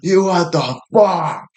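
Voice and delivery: slow, high, loud hammed-up yell; losing it at the girlfriend, slow mock yell; mock outburst. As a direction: stretch out a fake tantrum. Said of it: "I'm fucking losing it".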